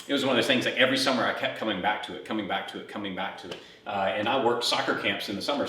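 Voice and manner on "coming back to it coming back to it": each repeat softer, trailing away; fading echo. Acted. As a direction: let the words echo and die out. Echoing repetition, fading out.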